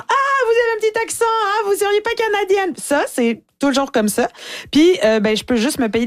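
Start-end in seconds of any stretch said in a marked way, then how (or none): 0.1-2.7 put-on high, fast, prissy European French accent; mocking European French accent. Europeans teasing the comedian's Québec accent, in a high fast European French accent. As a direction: mimic a Parisian teasing a Canadian's accent. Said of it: "quelqu'un pour imiter mon accent".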